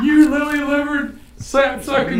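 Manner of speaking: high, slow hammed-up cowboy voice; Slim Pickens voice. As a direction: yell it like a crazy old Western cowboy. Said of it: "Slim Pickens".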